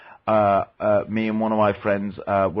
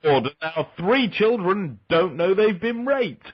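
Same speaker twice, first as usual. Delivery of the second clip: high, cheery Pop Pickers DJ; old radio DJ voice; 11 semitones higher than usual. Retold or imitated. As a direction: parody a cheesy old DJ. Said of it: "Hello, Pop Tickets".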